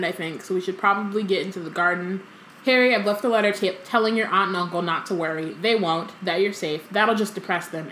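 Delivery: lively story reading, quotes lightly voiced; reading aloud. A narrator's reading. Co-host reads the chapter aloud, lively storytelling. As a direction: read the book to a friend.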